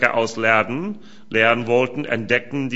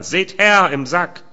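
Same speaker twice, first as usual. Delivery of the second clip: excited call; 5 semitones higher, 5 dB louder than usual. Acted. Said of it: "rief er".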